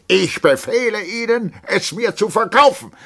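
high, full-force officer's yell; drunken shouted order. A narrator's reading. Captain orders the lieutenant to sell, shouting. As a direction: bellow it as a command. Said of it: "taumelte ein wenig und schrie".

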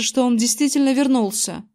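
ordinary delivery, nothing marked

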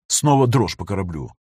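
ordinary delivery

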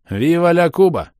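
high, loud joyous cry; cheerful shout. Acted. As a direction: shout it out in greeting.

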